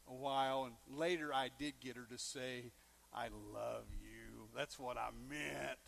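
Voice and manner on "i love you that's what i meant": much lower, softer and slow; hushed, bashful I love you; soft shy confession. Retold or imitated. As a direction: murmur it tenderly. Girlfriend finally saying it.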